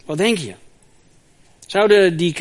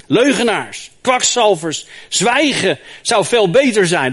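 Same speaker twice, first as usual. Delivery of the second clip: scolding back; 3 semitones higher, 4 dB louder than usual. Acted. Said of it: "En dan scheldt Job terug".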